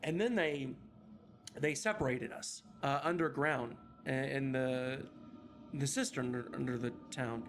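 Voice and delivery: put-on a lost child reciting what happened, distant; lightly voiced haunted child speaking for the group; eerie child recounting.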